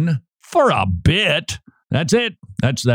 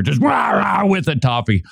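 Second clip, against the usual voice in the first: mock dog growl; 5 semitones higher than usual. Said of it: "like a pack of dogs".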